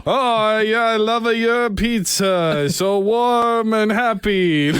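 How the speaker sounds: hammed-up mock Italian accent; Mario. Host parodying a caller's love for pizza, exaggerated Italian accent. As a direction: draw it out slowly in a comic Italian accent. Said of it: "You're dating Mario".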